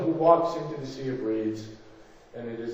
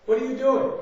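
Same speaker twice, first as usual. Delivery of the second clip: higher, louder exasperated outburst; irritated demand; 10 semitones higher, 5 dB louder, faster than usual. Acted. God confronting Moses, loud and irritated. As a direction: demand an answer, fed up. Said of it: "God absolutely irritated and angry".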